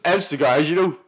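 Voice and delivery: slurring the words; slurred voice. Retold or imitated. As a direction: drunk slurred mumble. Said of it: "your voice slurred away".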